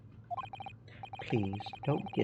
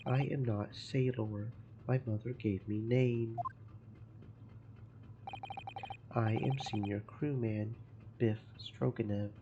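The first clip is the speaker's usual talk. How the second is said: a hint of a Russian accent, gruff and proud; broken-English Russian sailor. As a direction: play the touchy ship's guard, lightly accented. Gruff sailor Biff Stroganoff.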